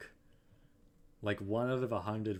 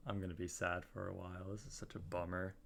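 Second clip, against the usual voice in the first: real sad streamer; 2 semitones lower, 6 dB quieter than usual. Real, not acted. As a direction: let the disappointment sink in quietly. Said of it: "I'm sad".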